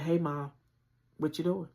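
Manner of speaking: bright, breezy voice hiding fear; forced playful. Retold or imitated. Calling mom, faking a playful cheerful tone. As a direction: sound casual so mom won't worry. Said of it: "the most playful voice I could muster".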